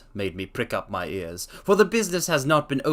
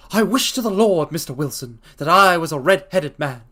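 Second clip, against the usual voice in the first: eager wish; 4 semitones higher, 5 dB louder than usual. Acted. Spaulding quoted with feeling.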